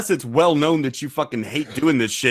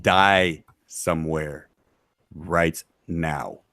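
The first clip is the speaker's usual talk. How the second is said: menacing promo; 9 semitones lower than usual. Acted. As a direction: drag out the threat like a wrestling heel. Menacing trash talk to rival.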